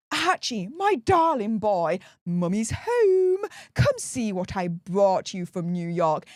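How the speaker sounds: a hint of a pompous prat's plummy accent; mock-grand posh voice reading a meme. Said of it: "I don't know why I just put on that accent".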